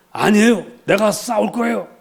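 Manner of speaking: high-pitched, insistent protest; imitated young challenger insisting; making a fuss. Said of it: "막 소란을 피웁니다".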